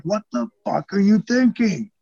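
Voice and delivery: mock a boss's exasperated scolding; imitating an annoyed boss, not yelling; retold pissed-off boss. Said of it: "It wasn't like he was screaming pissed".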